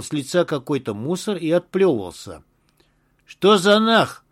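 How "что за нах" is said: slow, hoarse angry shout; hoarse yell. A narrator's reading. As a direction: bellow it out hoarsely. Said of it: "хрипло заорал Былинников".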